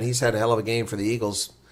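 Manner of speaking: usual speaking voice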